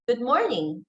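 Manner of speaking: "Good morning" jumping up on MOR, dropping on NING; drop or shift. Shown as a demonstration. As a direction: lift "morning", then drop it. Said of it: "that's the drop or shift".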